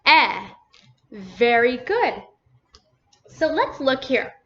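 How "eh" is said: E said alone as a short eh; loud, separate eh for the vowel E; teacher sounding out E by itself; isolated vowel sound. Shown as a demonstration. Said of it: "What's the last vowel sound".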